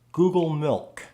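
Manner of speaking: "milk" with a dark L, tongue tip between the teeth; dark L with tongue tip anywhere. Shown as a demonstration. Teacher showing the tip does not matter. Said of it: "and you can still say".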